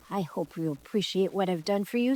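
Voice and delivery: lightly voiced indignant bird. Peacock leaving the girls, mildly indignant. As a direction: sniff as you strut off. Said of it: "indignantly strutted away".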